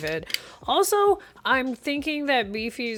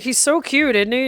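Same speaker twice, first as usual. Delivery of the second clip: doting quote; 4 semitones higher, 6 dB louder than usual. Retold or imitated. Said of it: "I was like".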